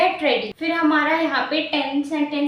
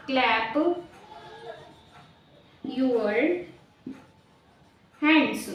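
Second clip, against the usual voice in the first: clap, your, hands spaced out, clap softer; slow word by word; 5 dB quieter, much slower than usual. Shown as a demonstration. Teacher to class, spacing out clap your hands word by word. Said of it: "तो उसके लिए हम बोलेंगे".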